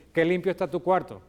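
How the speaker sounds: mock-praise with a touch of irony; ironic. Shown as a demonstration. Mom seeing the dirty room, lightly ironic. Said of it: "con la ironía está jugando eso".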